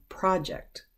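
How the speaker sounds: "project" as the noun, first syllable "prah", stressed; noun pronunciation. Shown as a demonstration. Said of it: "it's pronounced differently".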